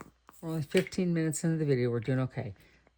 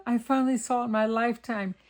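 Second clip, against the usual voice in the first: higher and louder, mildly thrilled; thrilled exclaim; 6 semitones higher, 5 dB louder than usual. Retold or imitated. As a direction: retell the joy of finally seeing it. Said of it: "And I said".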